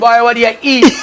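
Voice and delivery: high, loud hysterical teasing; acted dying laughing. Buddy mocks the sufferer, high and howling. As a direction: hoot the question as if helpless with mirth. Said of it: "Dying laughing".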